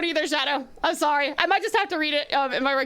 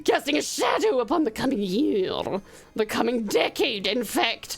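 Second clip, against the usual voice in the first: snooty voice. Acted. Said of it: "Snooty voice".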